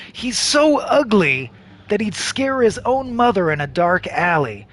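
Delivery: emphatic game narrator; dramatic character description; story narration. A narrator's reading. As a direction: read it out with storyteller relish. Reads game's character description.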